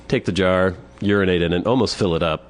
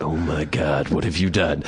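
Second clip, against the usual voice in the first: low, mock-appalled accusation; understated retold accusation, low; accusing old man; 4 semitones lower than usual. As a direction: drop the pitch and imitate his reproach. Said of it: "he gives me this accusing look".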